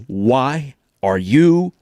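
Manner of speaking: slow, put-upon mom asking why you called; impatient mom. Retold or imitated. Mom typing while her kid phones, slow and annoyed. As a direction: drag it out like a busy mom interrupted. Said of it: "she goes".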